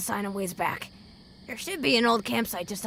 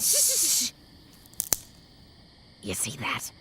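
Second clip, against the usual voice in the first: softer, tense hushed voice; hushed warning; 2 semitones higher, 4 dB quieter, much slower than usual. Acted. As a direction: keep it down, something's out there. Spotting danger ahead.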